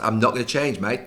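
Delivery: put-on barely there Australian accent, mostly own voice; half-hearted Aussie impression; bad Australian accent. Pundit mimicking the Australian manager in a weak Australian accent. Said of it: "that's the worst Australian accent".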